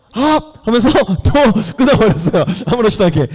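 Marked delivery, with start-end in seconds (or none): 0.1-0.7 high, short "hap!" of exertion; effort shout. Acted. Samson breaking his bonds, sudden effort shout. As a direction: burst out as if snapping bonds.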